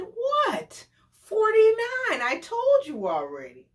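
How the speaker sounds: high, put-upon defensive voice; mock defensive date. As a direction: brush her off, mildly annoyed. Date insisting he's forty-nine.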